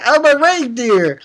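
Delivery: high, drawn-out cartoon protest; squeaky mock retort; Chopper. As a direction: imitate an indignant little cartoon creature. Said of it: "Chopper, and he's like".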